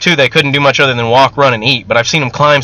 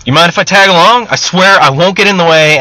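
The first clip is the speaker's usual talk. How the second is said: higher, louder eager asking; 1 eager plea; 4 semitones higher, 4 dB louder than usual. Acted. Young man begging the sergeant to let him come, eager. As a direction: plead to tag along.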